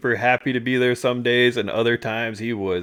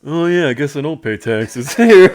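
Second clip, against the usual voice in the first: sheepish realization; 3 semitones higher, 7 dB louder than usual. Retold or imitated. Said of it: "he stops, he thinks, he goes".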